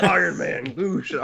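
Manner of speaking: high, laughing delivery of the line; thrilled laughing quote. Retold or imitated. Quoting Tony's big line to friends, high and laughing. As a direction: relive the moment with a laugh. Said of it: "And he goes".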